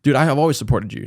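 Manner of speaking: eager, overly chummy voice; fake friend. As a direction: play the suddenly friendly user. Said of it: "And like".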